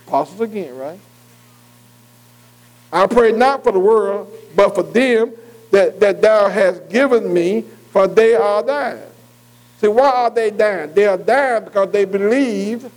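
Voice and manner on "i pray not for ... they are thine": slow, deliberate Bible verse; scripture reading. Acted. Preacher reading verse nine to his listeners, slow scripture reading. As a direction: read the prayer out in measured phrases. Reads scripture aloud to the class.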